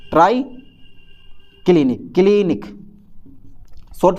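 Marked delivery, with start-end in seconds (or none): 0.1-2.6 slow drill. Shown as a demonstration. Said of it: "drilling the term".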